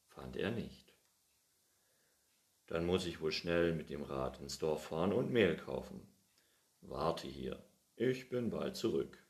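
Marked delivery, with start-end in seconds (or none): 2.7-9.2 put-on louder, hearty old farmer voice; happily starting the baking; cheerful old man. Pettersson telling the cat they'll start now, hearty.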